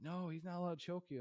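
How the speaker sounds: high, loud firm correction; teacher scolding. Retold or imitated. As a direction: imitate the teacher insisting.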